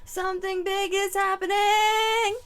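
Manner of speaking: loud, high prophetic call; ominous proclamation. Real, not acted. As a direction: announce the doom loudly. Channeling a premonition.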